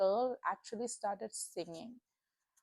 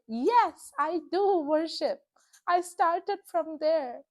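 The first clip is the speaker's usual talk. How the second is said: emotional outburst; 3 semitones higher, 6 dB louder than usual. Real, not acted. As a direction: voice swelling with real emotion, louder. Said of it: "I don't know why I just got emotional".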